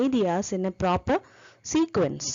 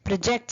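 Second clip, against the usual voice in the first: proJECT, leaning on the second syllable; short "Pro", firm JECT in "Project"; stress on second syllable. Shown as a demonstration. Teacher using the word as a verb, proJECT stressed on the second syllable. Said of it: "the stress is on the second syllable".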